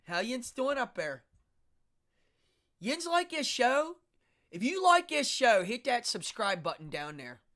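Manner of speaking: loud, high Pittsburgh Yinzer accent. Shown as a demonstration. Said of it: "That's my Pittsburgh accent".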